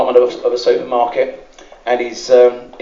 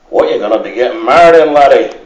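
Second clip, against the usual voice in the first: loud, fast Scottish dad challenging the lad; gruff Scottish father; 5 dB louder than usual. Retold or imitated. Scottish bride's father grilling the London groom, in a Scottish accent. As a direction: bark it like a Highland father.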